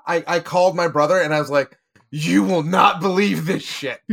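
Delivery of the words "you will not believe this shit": slow, laughing through the words; can't hold back a laugh of amazement; slowed-down giggling disbelief. Retold or imitated. Telling brother, amazed.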